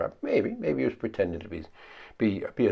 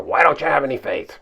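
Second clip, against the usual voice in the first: mild scolding; 5 semitones higher, 7 dB louder than usual. Retold or imitated. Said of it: "Maybe he was scolding them a little".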